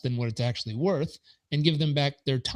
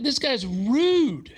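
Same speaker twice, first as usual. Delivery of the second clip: slow, higher, laughing disbelief; indignant aside; 10 semitones higher, much slower than usual. Retold or imitated. Reacting to the accountant's McDonald's jab, high and laughing. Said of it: "I was like".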